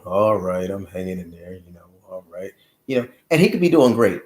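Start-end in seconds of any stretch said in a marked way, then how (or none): 0.0-2.5 mumbled, fading, dejected reply. Retold or imitated. Son imitates father answering friends, dejected mumble. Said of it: "always sound so down and out".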